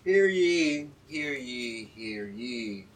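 booming herald announcement, fading out; town crier call. Pretend. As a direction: cry it like a royal herald. Podcast opening, formal crier call.

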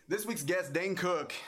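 mock podcast guest introduction; mock announcer. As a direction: announce a star guest in jest.

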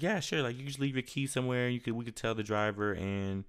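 a lightly voiced, easygoing company rep; quoting the shipper. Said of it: "He was like".

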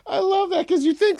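high, breaking laugh into the words; helpless laughter. Real, not acted. Friend cracking up at the Connery story, laughing hard.

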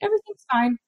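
calm reassurance in a high, light voice; high-pitched, unbothered parent voice. Retold or imitated. Mother to son throwing a fit, calm high-pitched reassurance. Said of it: "look at him very calmly and say".

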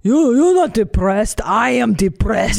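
put-on slow, heavy-accented immigrant parent; imitating parents. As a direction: dismiss her feelings like a strict parent. Voicing her immigrant parents scolding.

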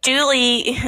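put-on Australian call; attempted Australian accent. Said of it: "mute myself to get into character".

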